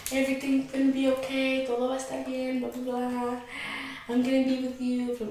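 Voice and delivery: softly imitating someone comforting; quiet, lightly mocking comfort; retold reassurance. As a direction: reel off soothing promises softly. Retells boyfriend's hug and reassurance.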